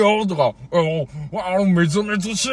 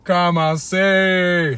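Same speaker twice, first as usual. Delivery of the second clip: mock starting call; much slower than usual. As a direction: drawl it like a referee starting.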